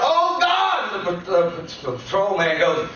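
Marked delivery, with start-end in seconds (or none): 0.0-1.1 retold cry to God. Injured man on the roadside calls out, anguished yell. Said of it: "But I yelled out".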